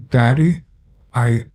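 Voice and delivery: put-on a frightened boy cries out; pleading child.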